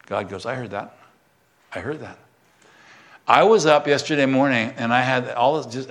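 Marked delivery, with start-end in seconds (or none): 0.4-2.2 God answering. Acted. Voicing God answering the sigh.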